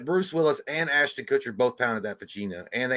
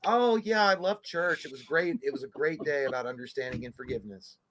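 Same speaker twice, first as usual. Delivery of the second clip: softer, polite put-on churchgoer chat; mom's phone voice; 5 dB quieter than usual. Mom telling caller about church, sweetly put-on calm. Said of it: "then she'd be like".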